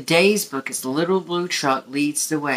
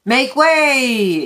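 higher, louder haughty command; yelled; 7 semitones higher, 4 dB louder than usual. A narrator's reading. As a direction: order them aside. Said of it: "yelled a limousine".

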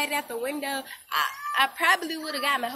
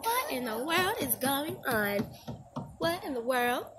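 put-on 1 innocent kid. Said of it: "I was like".

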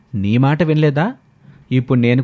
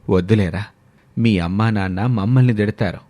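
lower, tired elder voice; old grandparent; 5 semitones lower than usual. Acted. Grandparent refuses the grandsons, lower weary voice. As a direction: gently turn the boys down.

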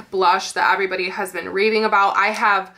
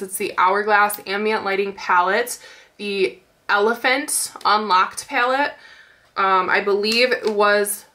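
stuffy, nasal tone from a blocked nose. Real, not acted. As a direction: speak through a congested nose. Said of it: "God, I hate my nasally voice right now".

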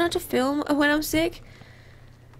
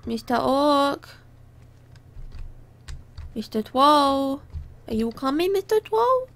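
cutesy voice; 3 semitones higher than usual. Pretend. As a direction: call sweetly, stretching out the names. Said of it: "I don't know why I'm speaking like that".

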